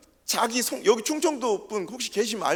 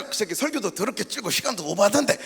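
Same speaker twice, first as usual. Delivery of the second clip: blunt Gyeongsang talk. Retold or imitated. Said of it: "경상도 분들 같으면".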